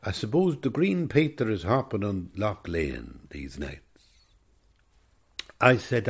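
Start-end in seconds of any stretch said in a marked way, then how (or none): 0.0-3.8 lightly imitated Cavan accent. Quoting the old man fondly, light Cavan accent. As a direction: retell it with a touch of Cavan. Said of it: "in a kind of a Cavan accent".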